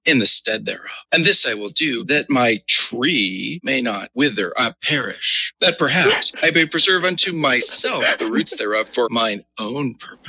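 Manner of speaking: suggestive scripture reading, softening at the end; mock-lascivious reading. Co-host making scripture sound dirty, mock-lascivious. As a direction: play it dirty, sinking away at the close. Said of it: "read it like it was really dirty".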